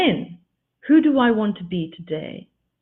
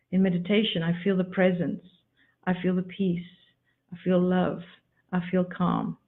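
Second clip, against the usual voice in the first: calm meditation voice; 2 semitones lower, 5 dB quieter than usual. Acted. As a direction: speak as if resting in meditation. Describes feeling in meditation.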